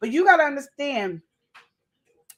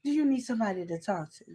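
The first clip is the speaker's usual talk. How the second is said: soft, sly, sugary concern, softer; sly other woman; 2 semitones higher, 3 dB quieter than usual. Acted. Coworker slithering up to the frustrated man, softly sly. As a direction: coo like the sweet-talking coworker moving in. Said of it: "she slithered on in there".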